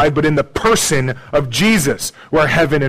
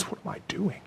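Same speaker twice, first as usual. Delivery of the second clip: breathy whisper, much softer; whispered self-reproach; 5 semitones higher, 17 dB quieter, faster than usual. Retold or imitated. Voicing Paul catching himself in sin, in a whisper. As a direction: hush it like a shocked confession. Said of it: "like Paul does when he says".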